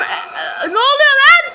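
high, loud panicked yell; startled shout. Real, not acted. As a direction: shout it in real alarm. Jump scare in horror game.

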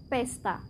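pesta said the Indonesian way, a p where Spanish has fi; pesta, soft and short, Indonesian for fiesta; Indonesian word. Shown as a demonstration. Teacher gives the Indonesian form of fiesta: Indonesian pronunciation. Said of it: "Aquí decimos".

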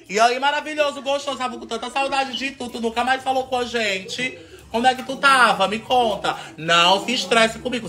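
high-pitched cooing to a dog; gushing pet talk. Pretend. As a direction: fuss over a pet in a high voice. Gushes over the dog.

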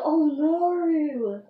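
"Oh no" with a put-on British accent; playful imitation of how British people talk; mock British accent. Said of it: "They go".

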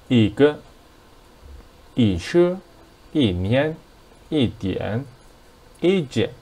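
一 said with a rising second tone; careful teacher's demo, 一 rising each time. Shown as a demonstration. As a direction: lift the pitch through each 一 before the next word. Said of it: "and E became the second tone".

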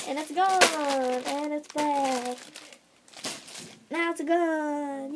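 slow, drawn-out words; teasing, drawn-out show-and-hide delivery; playful presenting. Pretend. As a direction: stretch each phrase like a little peekaboo game.

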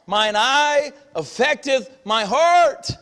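slow, weighty recitation of the verse; solemn scripture quote. Acted. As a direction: let each word land, slow and grave. Preacher quotes scripture slowly.

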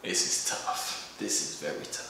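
breathy low mutter to himself; muttered to self. Real, not acted. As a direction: mumble it under the breath. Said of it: "deadpan unvoiced muttering".

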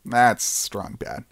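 low, slow lightly voiced tough guy; a hint of gruff cartoon bravado; Strong Bad voice. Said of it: "Is this still a strong bad bit".

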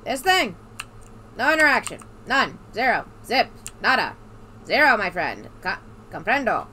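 put-on old-timey radio voice; 1930s voice. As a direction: lay on an old-timey newsreel voice. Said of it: "I am doing nineteen thirties voice".

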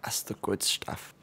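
slow breathy ASMR whisper close to the mic. Pretend. Player teasing viewers with a mock ASMR whisper. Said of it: "You boys want some A S M R?".

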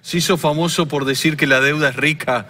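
Argentine politician impression, lightly voiced; Javier Milei impression. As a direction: talk like Milei with a halting "o sea, digamos". Impersonates Milei throughout.

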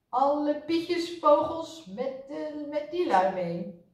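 slow, drawn-out astonishment; baffled, stretched-out wonder; amazed exclamation. A narrator's reading. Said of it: "mompelde verbaasd".

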